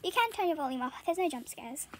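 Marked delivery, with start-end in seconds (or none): 1.3-1.9 talking through a hiccup. Real, not acted. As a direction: hiccup mid-sentence. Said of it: "I just hiccuped".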